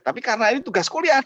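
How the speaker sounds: ordinary delivery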